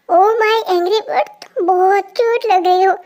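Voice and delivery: slow, drawn-out affectionate teasing; teasing coo. Acted. Boy teases the girl who refuses to talk to him, cooing. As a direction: coo at an angry sweetheart. Teasing an angry sweetheart as cute.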